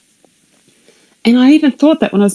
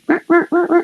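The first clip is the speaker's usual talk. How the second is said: son yelling; 9 semitones higher than usual. Retold or imitated. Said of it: "My son's going".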